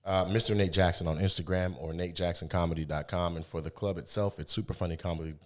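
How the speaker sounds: talking through chewing gum. Real, not acted. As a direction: mouth full of gum. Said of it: "gum in my mouth".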